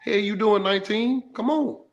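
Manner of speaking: half-acted hype talk to a teammate; player-to-player pep talk. Teammate rallying a struggling player, fired up. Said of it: "that's how you gotta talk to a guy".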